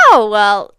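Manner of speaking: high, loud excuse-making voice; mocking past self. Vlogger imitating herself excusing a red flag, high mocking voice. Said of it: "And I was like".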